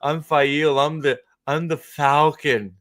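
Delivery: increasingly high boastful proclamation; mock heroine's self-introduction, rising in pitch; mock grand Faile. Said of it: "He's gonna be like".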